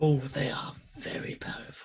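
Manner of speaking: conspiratorial, hushed whisper, like a secret.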